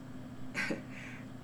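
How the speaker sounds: laugh. Real, not acted. Laugh before answering critics.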